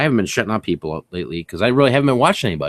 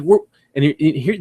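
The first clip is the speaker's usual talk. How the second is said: ordinary talk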